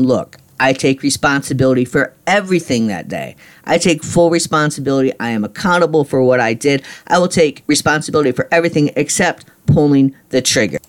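insisting, irritation hitting the voice; irritated. Retold or imitated. Retelling to the parole board, irritated and insistent. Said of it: "I can really feel myself getting irritated".

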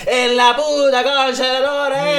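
high, loud, slow Argentine rant; mock-furious Argentine insult; angry Argentine. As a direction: yell like an offended porteño. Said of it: "si me está escuchando un argentino".

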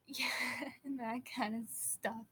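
slow trailing whisper. Real, not acted. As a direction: let it fade into a whisper.

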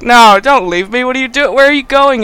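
high, loud burst of questions; hammed-up fear of being abandoned; mock panicked pleading. Adam begs the departing doctor to stay, mock panic. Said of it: "And Adam's like".

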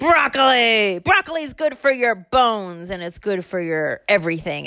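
a hint of a bossy grandma; mildly put-on grandma voice. Parent voicing grandma in story.

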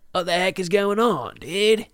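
high, loud comic outburst; mock freak-out. Podcaster reliving his phone withdrawal, high-pitched mock panic. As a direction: burst out high and baffled, hamming it up.

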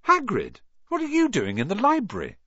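put-on high, startled boy's voice; surprised call. A narrator's reading. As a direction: sound caught off guard. Ron surprised to see Hagrid.

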